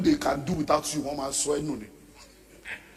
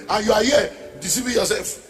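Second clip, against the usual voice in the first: laughing rebuke; 5 semitones higher, 6 dB louder than usual. Real, not acted.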